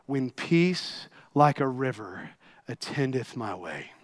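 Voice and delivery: measured, hushed reverence toward the close; solemn recitation. Acted. Grieving father writing hymn words at sea, solemn recitation.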